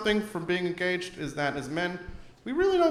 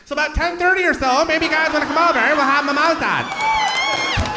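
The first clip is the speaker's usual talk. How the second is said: higher, bright hostess voice stretched out at the end; sing-song speakerphone voice; 10 semitones higher, 7 dB louder than usual. Retold or imitated. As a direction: announce to the room like a cheery host. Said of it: "I'll just put her on speaker".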